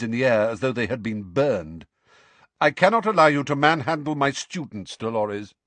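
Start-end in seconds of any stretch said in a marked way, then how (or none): 2.6-5.5 understated anger. Acted. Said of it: "for the first time he looked angry".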